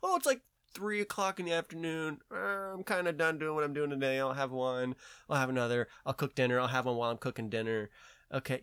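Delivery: lightly mocking her own afternoon self; lazy afternoon voice. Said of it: "rather than going".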